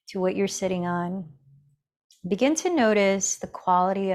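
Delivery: calm, measured meditation guide with long pauses; guided meditation. Real, not acted. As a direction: gently guide them into the breath, leaving space between phrases. Leads breathing meditation.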